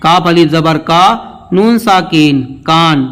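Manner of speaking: measured letter-by-letter recitation; teacher's spelling drill with held long vowels; spelling aloud. Shown as a demonstration. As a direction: spell it out for learners, then land on the word. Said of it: "ہجے کرتے ہوئے پڑھتے ہیں".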